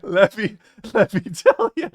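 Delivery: a hammed-up Trump, going up on tell; Trump impression. Trump trying again for Bubba, hammed-up. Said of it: "Trump tells Bubba".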